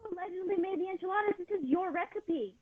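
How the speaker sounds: muttered dig. Acted. Acted quarrel, muttered dig.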